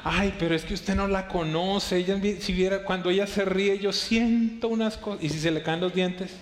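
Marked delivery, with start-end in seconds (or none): 0.0-5.2 lovestruck gushing. Retold or imitated. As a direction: play the infatuated believer. Lovestruck congregant quoted. (feligrés enamorado, voz embelesada)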